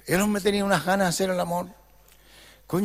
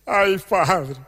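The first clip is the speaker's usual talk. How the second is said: put-on bashful girl; slower than usual.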